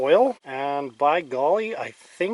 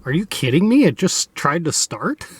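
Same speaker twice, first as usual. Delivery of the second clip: higher, louder shouted disbelief; disbelieving shout over the engine; startled disbelief; 5 semitones higher, 4 dB louder than usual. Real, not acted. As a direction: yell it in real surprise at the engine. Engine unexpectedly tries starting.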